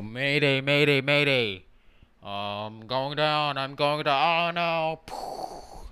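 loud, panicked radio distress call, drawn out slow; mock pilot mayday call. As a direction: yell it like a fighter pilot going down. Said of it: "World War Two airplane, you know? ... you go, you go".

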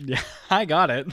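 loud laughing exasperation. Real, not acted. Annoyed at repeated joke.

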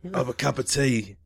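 put-on British tea-offering voice; chummy mock-British accent. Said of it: "I'm British".

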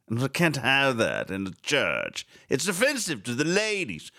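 slow, lightly put-on prissy churchman; a light mocking imitation of the archbishop, drawn out; mock pompous cleric. Host mocking the archbishop's statement, slow prissy voice. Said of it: "I want to talk like this".

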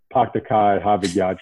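Boston accent, Rs dropped on Pak Takai; dropping the Rs the Boston way. Shown as a demonstration. Guest shows off his New England accent, Rs dropped. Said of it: "I can drop the".

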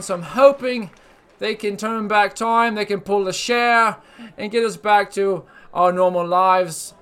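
a hammed-up British accent, lightly done; put-on British accent. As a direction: play a cheeky British host with a put-on British accent. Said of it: "That's a nice accent you have".

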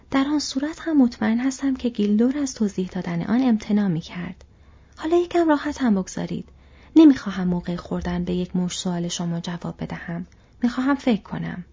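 a mild sharp edge, a touch irritated. Acted. Frodo snapping mildly at Pippin over breakfast, mildly sharp. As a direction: brush off the questions with mild impatience. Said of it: "فرودو با لحن تند گفت".

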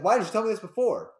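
excited shout. Retold or imitated. A dad asking his son why he hid it, loudly. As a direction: shout it with eager delight. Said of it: "I'd be like".

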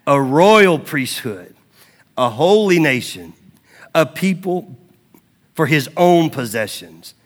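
slow, weighty proclamation with pauses; measured, solemn preacher's reading; scripture reading. Acted. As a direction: declare each title deliberately to the congregation. Reads scripture to congregation.

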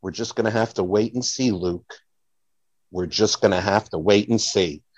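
as Han Solo answering Luke, low and dramatic. Retold or imitated. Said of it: "Han Solo's rebuttal to that is".

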